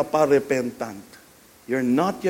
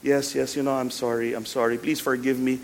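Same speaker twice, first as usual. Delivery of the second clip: mumble-free but token plea for forgiveness; half-hearted apology; 2 semitones lower than usual. Acted. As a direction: go through the motions of apologizing. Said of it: "asked forgiveness like this".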